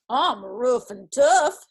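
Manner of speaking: loud, slow boast; bragging. A narrator's reading. Dusty Locks on the grizzly stump, bragging. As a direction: brag it out slowly and loudly. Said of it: "she bragged".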